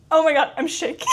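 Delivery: overwhelmed fan shriek dissolving into laughter; real excited shout into a high laugh; shaking with excitement. Real, not acted. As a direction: cry it out, half laughing, half shouting.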